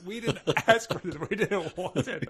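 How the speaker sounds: high-pitched, laughing retold protest; indignant protest. Young customers answering the meat guy's complaint, indignant protest.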